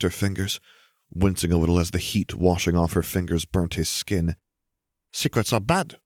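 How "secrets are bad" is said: high, sing-song chirp. A narrator's reading. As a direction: tease it out in a perky lilt. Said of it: "Gabby chirped".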